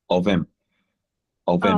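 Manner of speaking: "of him" said as one linked unit, "ovim"; reduced of him. Shown as a demonstration. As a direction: blend "of him" with the h dropped. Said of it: "we usually pronounce it like this".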